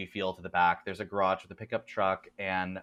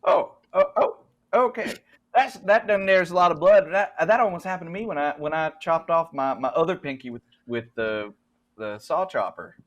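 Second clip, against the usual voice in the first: put-on Southern accent; 6 semitones higher, 6 dB louder than usual. GM keeps Jed's voice.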